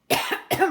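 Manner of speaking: hard hacking cough; coughing fit. Real, not acted. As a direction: cough hard, throat tickling. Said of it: "je m'étouffe".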